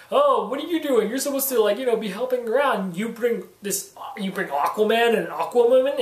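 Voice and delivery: a hint of a grumbling sheriff nagging the hero; complaining sheriff. Reviewer retelling how the sheriff scolds Aquaman, mock complaining. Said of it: "starts complaining".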